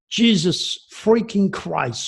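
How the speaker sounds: upset, drawn-out exclamation; exasperated outburst. Real, not acted. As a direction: spit it out slowly in real frustration. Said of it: "I'm so upset right now".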